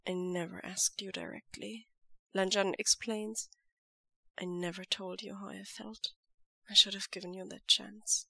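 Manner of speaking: soft firm lover's voice; quiet devoted lover. Acted. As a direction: hold him close with quiet certainty. Lan Zhan confesses.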